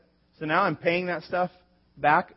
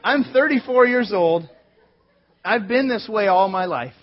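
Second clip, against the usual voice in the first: laughing; 3 semitones higher, 7 dB louder than usual. Real, not acted. Laughing at own long-held tooth.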